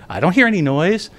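mock innocent denial; feigned innocence. Storyteller denies the noise to the student, lightly feigned innocence. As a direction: play dumb lightly. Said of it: "I pretended to be innocent".

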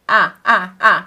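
repeated vowel A; vowel sound. Shown as a demonstration. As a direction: stretch the A of apple for the class. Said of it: "Ne duyuyorsunuz".

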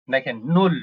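নুল said clearly as German null, short u. Shown as a demonstration. Teacher models German নুল to students. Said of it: "এটা হচ্ছে নুল".

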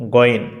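গইন with a throaty gh; correct letter name. Shown as a demonstration. Teacher stating the correct letter গইন. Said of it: "এখানে যে ভুলটি করে".

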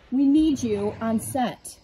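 slow, pleading film assistant; frantic stressed assistant. Pretend. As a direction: beg the star slowly, drawing each word. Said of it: "he's having a diva moment".

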